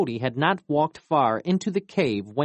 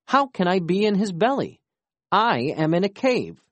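fast, higher, alarmed disbelief; 7 semitones higher than usual. Acted. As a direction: rush it out in panic.

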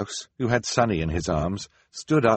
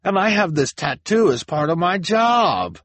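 high, earnest pleading; pleading Jacques; 11 semitones higher, 6 dB louder than usual. A narrator's reading. Jacques explaining his tattoo, pleading. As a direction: explain desperately. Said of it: "Jacques cried".

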